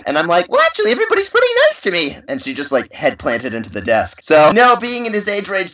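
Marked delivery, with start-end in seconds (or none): 0.5-2.2 put-on very high, quick little-kid voice; imitated guileless child; innocent nice kid. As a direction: squeak it out as a sweet, innocent child. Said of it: "super innocent, nice kid".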